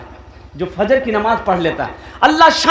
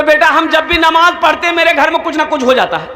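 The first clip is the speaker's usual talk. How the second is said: put-on old man repeating; 5 semitones higher than usual. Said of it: "बेटा, हम जब भी नमाज पढ़ते हैं ना".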